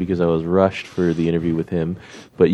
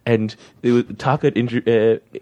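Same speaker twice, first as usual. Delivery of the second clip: ordinary delivery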